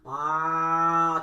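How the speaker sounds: pinch your nose and moo; nose-plugged moo. Shown as a demonstration. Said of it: "Can you do it with one hand?".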